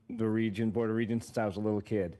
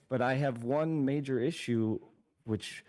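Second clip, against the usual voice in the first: sarcastic. Real, not acted. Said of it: "hopefully everyone hears the sarcasm in my voice".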